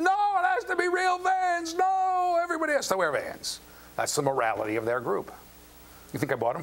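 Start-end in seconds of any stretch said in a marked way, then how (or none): 0.0-3.6 put-on insistent teen shout. Son insists on real Vans.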